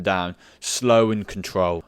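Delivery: words drawn out slowly, like the lowering; slow and controlled. Shown as a demonstration. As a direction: say it as slowly as the lowering you describe. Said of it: "go up as quick as you can and then come".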